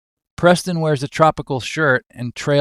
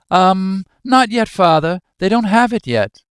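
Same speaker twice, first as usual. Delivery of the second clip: higher, lightly voiced nervous son; hesitant son; 7 semitones higher, 4 dB louder than usual. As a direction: answer your stern father hesitantly, pitched up. Timid son answers stern father.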